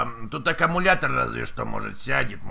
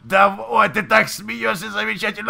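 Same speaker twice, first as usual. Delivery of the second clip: mock aroused; 7 semitones higher, 4 dB louder than usual. Mock sex talk on prank call.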